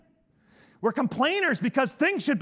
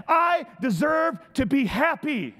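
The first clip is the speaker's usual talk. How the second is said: mock entitlement; 3 semitones higher, slower than usual. Mocking entitled attitude.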